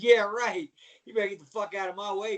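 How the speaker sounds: loud mock-angry comeback; defiant retort. Wrestler to the man blocking the curtain, defiant. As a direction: push back loudly, brushing him off.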